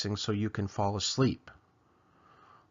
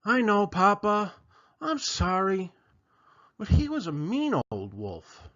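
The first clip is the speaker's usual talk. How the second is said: little chicken voice; 7 semitones higher than usual. Acted. Chicken apologises to Papa.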